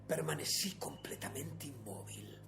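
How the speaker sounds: soft, hushed storytelling; suspenso contenido. A narrator's reading. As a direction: keep it still and quiet. Relato de suspenso. (relato contenido en voz baja)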